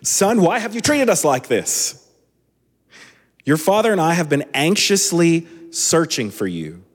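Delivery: put-on a worried mother finding her lost boy; mother scolding son. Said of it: "and his mother said to him".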